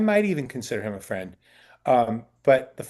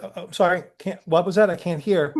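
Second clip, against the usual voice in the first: higher-pitched, innocent-sounding complaint; subtly pointed apology; 5 semitones higher than usual. Retold or imitated. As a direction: politely let her know it isn't working. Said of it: "subtle kind of way, letting her know".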